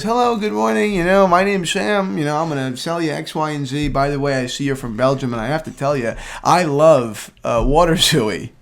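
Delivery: bright eager sales-call voice; imitating buddy's eager pitch. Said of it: "And he goes".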